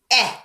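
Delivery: a short, clean EH for letter E; short E sound. Shown as a demonstration. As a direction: say EH as a short open vowel, as in bet. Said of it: "The E says".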